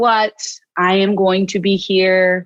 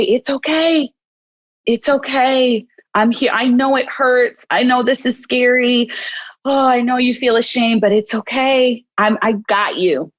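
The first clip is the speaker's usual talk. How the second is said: gently reassuring, starting a little higher; comforting; 3 semitones higher than usual. Acted. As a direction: soothe it like a crying puppy. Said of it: "imagine comforting this baby, this puppy".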